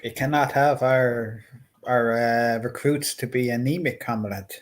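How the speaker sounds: slow, softening mock Russian accent; attempted Russian accent. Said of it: "I can't do a Russian accent".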